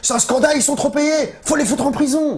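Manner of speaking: high mock outrage, shouted; outraged fans. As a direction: rant like betrayed fans. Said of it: "ils disaient".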